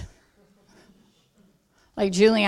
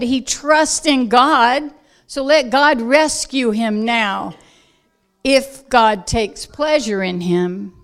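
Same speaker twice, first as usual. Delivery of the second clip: loud scornful taunt, slow start; mocking crowd; 2 semitones higher, 7 dB louder than usual. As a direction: throw the taunt loudly at him. Crowd mocking Yeshua on cross.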